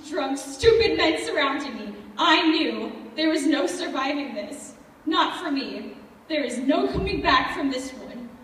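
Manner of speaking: forceful, hopeless certainty; desperate realization. Acted. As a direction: hit it hard as the hopelessness sinks in. Realizing she will not survive.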